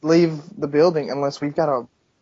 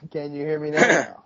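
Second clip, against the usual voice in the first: muffled, stuffed-up line sound; muffled connection. Real, not acted. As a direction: talk as if through tissues. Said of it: "talking through four boxes of Kleenexes".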